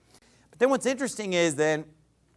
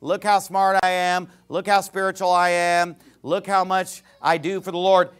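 mock braggart, sing-song and even; boastful; 3 dB louder than usual. Preacher mimicking a braggart to the congregation, boastful. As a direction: imitate someone showing off. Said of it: "If you boast and brag".

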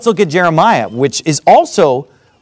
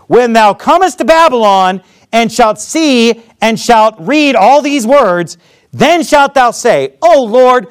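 emphatic reading of scripture aloud; measured pulpit reading; 2 semitones higher than usual. A narrator's reading. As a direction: read the verses out firmly to a congregation.

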